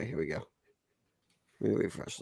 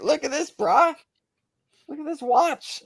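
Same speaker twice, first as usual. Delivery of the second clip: higher, bragging bro voice; mock bro brag; 11 semitones higher than usual. To Nate, mock showing off the watch: bro brag. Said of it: "you could be like".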